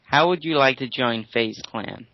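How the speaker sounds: slow, careful imitated American accent; attempted American accent. British friend trying it on request, imitated American accent. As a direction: mimic American speech slowly and deliberately. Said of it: "say that in American".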